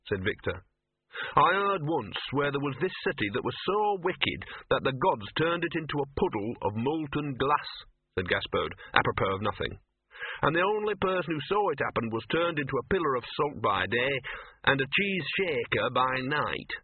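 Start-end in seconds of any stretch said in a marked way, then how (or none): 1.3-7.7 lightly voiced streetwise mutt; talking dog. Dog telling Victor an old legend, lightly voiced. 10.4-16.7 lightly voiced streetwise mutt; talking dog. Dog telling Victor an old legend, lightly voiced.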